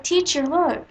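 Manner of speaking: put-on high, eager child's call; a little girl calling out to her teacher; excited little girl. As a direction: show off a new dress like a proud kid. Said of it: "She was like".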